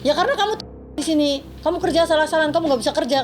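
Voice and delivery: mild mock telling-off; retold berating. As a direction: lightly act out the employer's reprimand. Retold employer berating maid.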